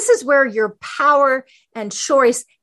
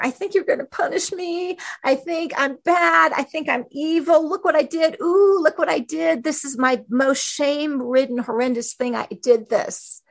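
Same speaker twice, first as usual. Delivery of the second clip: put-on higher, childlike confession of shame; ashamed child; 4 semitones higher than usual. Believer confessing shame to God, childlike and higher. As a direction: confess it like a scared little kid.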